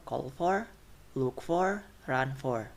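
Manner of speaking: weight the verb before for, as in CALL for; stress on main verb. Shown as a demonstration. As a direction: CALL for, LOOK for, RUN for. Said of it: "stress on main verb".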